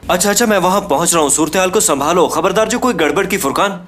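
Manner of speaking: agitated warning. Acted. Alarmed warning to friend on phone.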